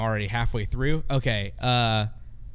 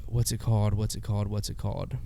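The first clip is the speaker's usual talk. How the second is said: fading mutter; 3 semitones lower, 5 dB quieter than usual. Real, not acted. Blanking on a name.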